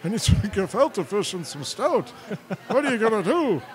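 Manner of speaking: put-on high old Jewish man accent. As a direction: keep the old Jewish grandpa voice going. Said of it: "my old man Jewish accent".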